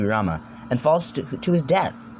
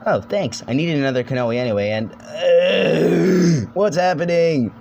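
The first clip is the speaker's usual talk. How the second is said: confused, rising alarm; 5 semitones higher, 4 dB louder than usual. Acted. Liwa voiced being infected.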